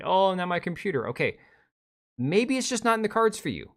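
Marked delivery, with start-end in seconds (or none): 0.0-1.1 mock whining. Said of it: "lamenting how".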